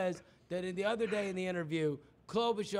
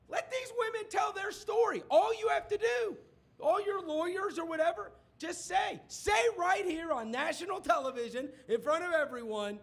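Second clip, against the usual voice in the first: mock shouted demand; 6 semitones higher than usual. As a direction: yell it like a debater cornering him. Debater demands on national TV.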